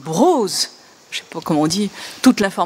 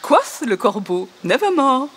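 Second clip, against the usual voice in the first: amused reading; 5 semitones higher than usual. Shown as a demonstration. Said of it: "bon, ça continue".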